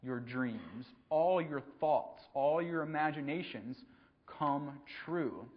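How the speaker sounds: slow, drawn-out warning with each "all" leaned on; a hint of a haunted man spelling out the danger; slow ominous warning. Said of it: "And the guy says".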